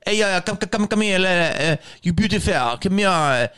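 lightly voiced creep calling someone over; scumbag guy. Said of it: "A guy that talks like that".

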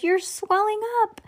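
thin-volume storybook scream; screamed alarm. A narrator's reading. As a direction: squeal it in horror. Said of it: "screamed Missus Beauregard".

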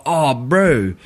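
put-on Maori-Kiwi accent. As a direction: do a jokey Maori New Zealand accent. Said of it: "you did that accent great".

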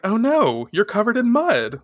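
high-pitched mock concern; acted dismay. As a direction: play a dismayed friend. Ray dismayed at muddy friend.

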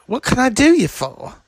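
a light, hammed-up greeting from the devil; high-pitched mock devil. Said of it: "then he's like".

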